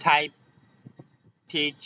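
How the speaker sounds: "টাইপ", "টিচ" with puffed t; airy t opening "টিচ"; aspirated T. Shown as a demonstration. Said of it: "এ পাশেও টি sound আছে".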